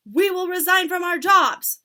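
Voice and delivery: high, loud screechy witch chorus. Acted. Witches answering their leader, high screeching chorus. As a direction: squawk it like a flock of witches.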